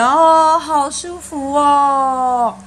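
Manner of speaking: high, slow, blissful "ahh so comfy"; relieved sigh of pleasure. Acted. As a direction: sound utterly relieved. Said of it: "而且他还说".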